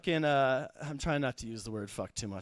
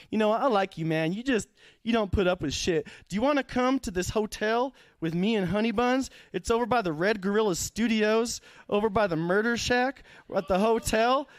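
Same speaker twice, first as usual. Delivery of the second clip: lightly mimicked Southern accent, pitched up; swampy Southern accent; 5 semitones higher than usual. Couple inviting the comic to a hotel, light Southern accent. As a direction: invite them over in a mock Southern twang. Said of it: "they had, like, a swampy southern accent".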